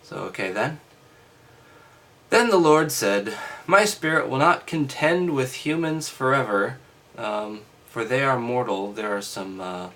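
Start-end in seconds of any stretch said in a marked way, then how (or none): 2.3-8.9 raised, declaiming Bible reading; loud, formal reading voice; scripture reading. Acted. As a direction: read it out like a lesson.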